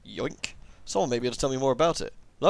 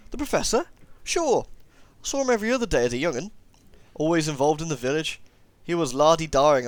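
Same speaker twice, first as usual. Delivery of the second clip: put-on old villager gossiping in a comic rural accent; comedy accent. Player voicing an old villager in a comic accent. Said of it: "as much as I like to do comedy accents".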